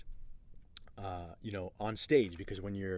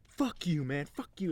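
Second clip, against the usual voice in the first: imitated outburst, higher-pitched; angry cursing; 7 semitones higher, 4 dB louder than usual. Heckler to leader on stage, imitated angry cursing. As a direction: act out a heckler's defiant swearing.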